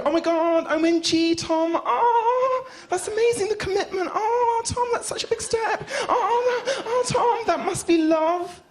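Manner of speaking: squealing, very high gushing voice; gushing fan. Retold or imitated. People who barely know us gushing at me, high squealing coo. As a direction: coo over the couple's big step like an overexcited fan. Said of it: "and they go".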